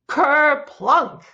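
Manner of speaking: high, drawn-out splash noise after suspense; punched, exaggerated sound effect; big kerplunk. A narrator's reading. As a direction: let the kerplunk boom out. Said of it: "with a big".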